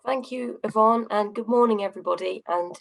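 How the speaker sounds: slightly hoarse, croaky voice. Real, not acted. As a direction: speak through a croaky throat. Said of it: "I've got a little bit of a croaky voice".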